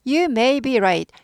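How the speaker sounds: slow, clear model sentence; slow model reading. Shown as a demonstration. Teacher reading the example slowly to the class. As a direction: read it out slowly for students. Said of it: "teacher models the sentence".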